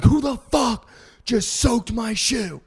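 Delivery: high, slow, put-on angry girl voice; imitating the girl's outraged demand; mock angry girl. Girl at the club confronting them over her soaked shoe, mock outrage.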